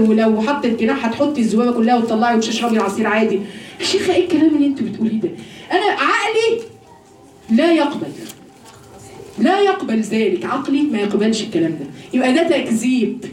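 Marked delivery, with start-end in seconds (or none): 3.8-11.9 quick, amused mimicry of a doubter; mocking a skeptic. Preacher mimicking a woman who rejects belief, lightly scoffing. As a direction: toss it off with a laugh, then dig in. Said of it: "انتوا بتقولوا".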